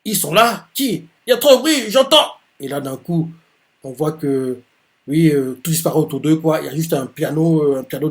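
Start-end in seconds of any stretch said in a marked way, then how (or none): 0.0-2.3 high, rising confusion; panicky, straining to hear; startled Takakura. Acted. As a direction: Takakura lost in the din, voiced high. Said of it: "Takakura fait".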